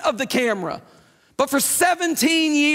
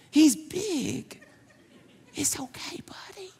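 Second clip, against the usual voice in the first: lower, soft, patronizing, fading to a whisper; condescending king; 3 semitones lower, 3 dB quieter than usual. Retold or imitated. The king belittles young David, patronizing and soft. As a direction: talk down to him like a small child. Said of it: "What did the king say?".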